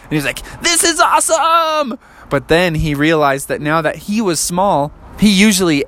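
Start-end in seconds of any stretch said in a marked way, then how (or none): 0.6-2.0 higher squeaky delight; tiny frog thrilled. Acted. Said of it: "so his voice was so high".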